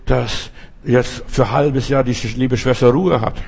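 normal talking voice

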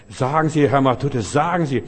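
husband eagerly agreeing to the clear-out, calling out; eager loud agreement. Retold or imitated. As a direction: blurt it out gladly.

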